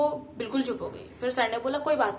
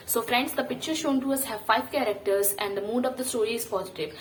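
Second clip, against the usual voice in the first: slow formal discussion opener; 3 semitones higher, much slower than usual. Retold or imitated. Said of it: "and मैंने बोला".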